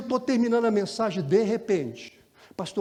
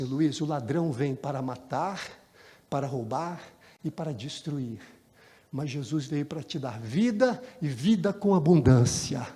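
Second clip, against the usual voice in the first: tender scripture reading; 4 semitones lower than usual. Retold or imitated. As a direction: gently offer the promise. Pastor quoting scripture to Luiz.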